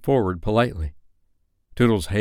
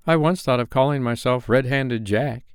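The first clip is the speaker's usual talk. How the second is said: higher, lightly voiced hesitant boy; diffident; 5 semitones higher than usual. John admitting his pirate name to Hook, mildly diffident. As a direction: confess it a little shyly. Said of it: "he said diffidently".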